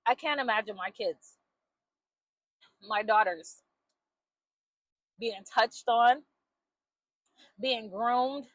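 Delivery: low, hushed and heavy, with long pauses; pained disbelief. Real, not acted. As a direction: say it softly, as if it hurts to picture. Mother pained imagining her daughters abused.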